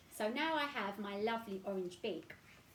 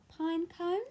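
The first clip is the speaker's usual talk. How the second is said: high, loud, long drawn call; 10 semitones higher, 7 dB louder, much slower than usual. Acted. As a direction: call across the forest. Calling out for friend.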